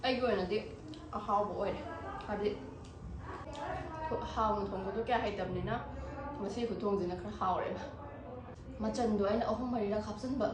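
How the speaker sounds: talking with a mouthful of food; quiet, chewing between words; chewing while talking. Real, not acted. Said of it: "ꯉꯁꯥꯏꯒ ꯆꯥꯕ ꯍꯧꯔꯒ ꯋꯥꯒ ꯉꯥꯡꯉꯒ".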